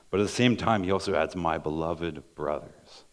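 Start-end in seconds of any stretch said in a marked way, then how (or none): 1.4-3.0 slow, tender plea; pleading. Shown as a demonstration. Preacher voicing James pleading with his brothers, slowly. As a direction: soften it into a family plea, slow. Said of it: "down also to this family, like, pleading".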